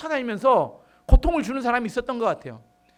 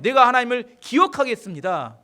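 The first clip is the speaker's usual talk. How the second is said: louder, firm declaration; determined vow; 3 semitones higher, 5 dB louder than usual. Acted. David resolves in distress to remember God, determined vow. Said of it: "그때 마음이 결단합니다".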